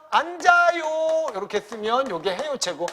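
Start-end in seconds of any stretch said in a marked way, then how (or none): 0.1-1.3 slow, higher, gentle invitation; friendly polite demo. Shown as a demonstration. Teacher demonstrating the haeyo style, slow and friendly. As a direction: invite them kindly and slowly to sit. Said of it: "여기 와서".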